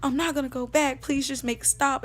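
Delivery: insistent, repeated pleas to God; retold desperate begging, pouring out in confession; begging and pleading. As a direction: plead with God to make it stop. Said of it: "I'm begging him and I'm pleading with him".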